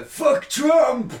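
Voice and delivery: loud, high-pitched slogan, drawn out slowly; mock protest shout. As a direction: yell it like an over-the-top protester. Mimics an extreme left protester.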